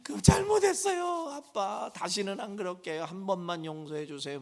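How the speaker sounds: high, lightly voiced pleading kid; child begging father for forgiveness. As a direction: whimper sorry like a scolded kid. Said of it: "막 이제 이래요".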